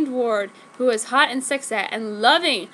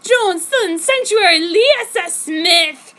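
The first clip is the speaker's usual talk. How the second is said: loud, high, slow demon roar; hammed-up monster roar; 8 semitones higher, 8 dB louder, slower than usual. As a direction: snarl it like raging hags. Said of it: "They roared at me with a nasty primal rage".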